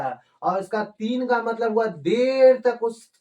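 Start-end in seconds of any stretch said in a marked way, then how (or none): 1.9-2.6 देर held long to show duration; drawn-out word. Shown as a demonstration. Teacher explaining the long count, देर drawn out. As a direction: stretch the vowel of देर. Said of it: "खींच करके ले जाना है".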